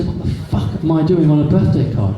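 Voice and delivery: shocked disbelief. Retold or imitated. Man to wife over the card, mild mock disbelief. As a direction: replay the swearing shock without real volume. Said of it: "I was so shocked".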